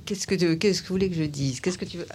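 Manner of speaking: muffled behind a mask; speaking through a mask, muffled; through a face mask. Real, not acted. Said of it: "C'est très bizarre de parler avec un, un masque". (voix étouffée par un masque)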